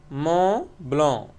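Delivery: "Mont Blanc" said the French way, final consonants silent; "Mont Blanc" as a French name, no t or c sounded; French pronunciation. Shown as a demonstration. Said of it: "This is a French name".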